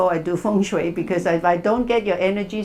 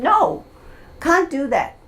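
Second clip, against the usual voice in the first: retold scream; 7 semitones higher than usual. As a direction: scream it out, half-acted. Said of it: "He literally screamed".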